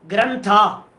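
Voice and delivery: ग्रंथा sounded out in syllables; letter-by-letter reading. Shown as a demonstration. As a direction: read ग्रंथा deliberately, syllable by syllable. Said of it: "पहला अक्षर पढ़ो".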